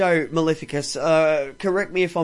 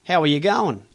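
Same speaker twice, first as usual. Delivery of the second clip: lightly voiced everyday Aussie greeting; easy Australian "How are you going?"; normal Aussie slang. Shown as a demonstration. Host demoing everyday Aussie slang, mild Australian. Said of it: "Normal slang".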